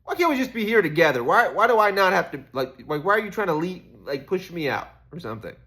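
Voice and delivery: high, loud, pleading with the critics; exasperated pleading. Retold or imitated. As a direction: beg to just be left here, voice way up. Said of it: "I'm just like".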